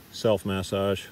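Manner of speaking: MASSAGE said both ways, stress shifting; two pronunciations. Shown as a demonstration. Instructor correcting himself on the word, two pronunciations. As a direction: say MASSAGE first one way, then the other. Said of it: "It's interesting, that word".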